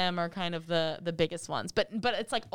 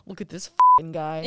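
mock scoff; 3 semitones lower, 10 dB louder, slower than usual. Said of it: "we go".

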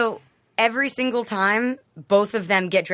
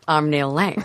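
Neil Lane impression; 4 semitones lower, slower than usual. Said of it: "your impression of Neil Lane".

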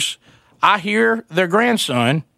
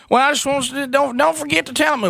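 mock wife voice; 7 semitones higher than usual. Wife interrupting on radio.

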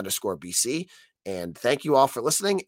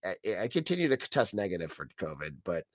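frog voice; 3 semitones lower than usual. Real, not acted. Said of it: "I sound like a frog".

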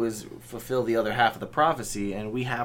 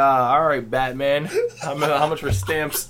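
gravelly Batman voice; 3 semitones higher, 5 dB louder than usual. Pretend.

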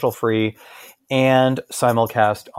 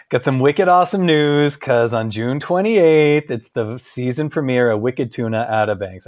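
put-on Boston accent. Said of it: "Outer Banks would not have a Boston accent, but Wicked Tuna does".

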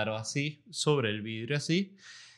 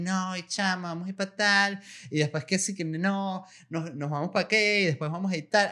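mock excited teen chatter, higher; bubbly, gushing about trip plans; giddy excited girls; 6 semitones higher than usual. Teen girls gushing over their study trip, excited. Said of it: "estaban gozando una bola".

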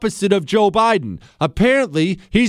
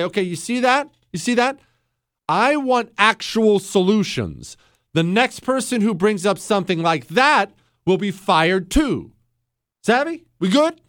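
acted boss warning. Boss warning remaining staff after the firing, stern. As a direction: warn the room you mean it.

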